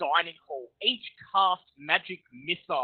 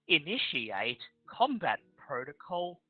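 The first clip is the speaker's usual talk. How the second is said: metallic robot voice; 5 dB quieter than usual. Acted. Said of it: "you hear a metallic voice".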